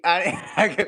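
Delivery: mumbled through a toothbrush; while brushing teeth. Real, not acted. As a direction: talk with a toothbrush in your mouth. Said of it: "I'm brushing my teeth".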